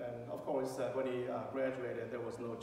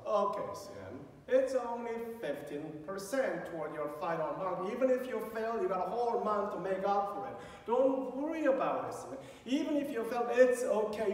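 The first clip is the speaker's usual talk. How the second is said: reassuring dad; 5 semitones higher, 4 dB louder than usual. Retold or imitated. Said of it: "I need to calm him down first".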